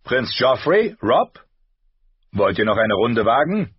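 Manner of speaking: master-at-arms calling them forward. Acted. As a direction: summon the fighters for another round. Master-at-arms summons the boys.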